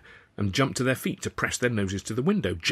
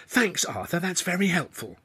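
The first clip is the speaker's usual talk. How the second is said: lightly voiced young woman, higher, sarcastic; sarcastic hiss; 9 semitones higher than usual. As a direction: throw his words back at him sarcastically. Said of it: "she hissed".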